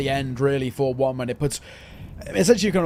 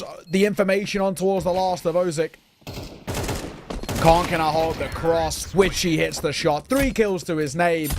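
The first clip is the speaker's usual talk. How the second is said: lively play-by-play commentary; esports caster. Acted. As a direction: call the action like a caster. Live play-by-play casting.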